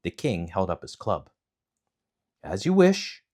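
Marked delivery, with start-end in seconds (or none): 2.4-3.2 1 hero accepts. Acted. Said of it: "said Momotaro".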